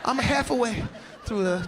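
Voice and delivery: ordinary talk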